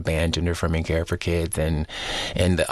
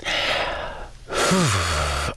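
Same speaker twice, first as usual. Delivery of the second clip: heavy sigh. Real, not acted. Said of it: "I'm just trying to gather my resilience".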